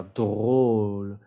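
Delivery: "drôle" with rounded lips, long O; closed O. Shown as a demonstration. Teacher says watch my mouth, "drôle" with closed O. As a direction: hold a tight round O in "drôle". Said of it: "Mira mi boca".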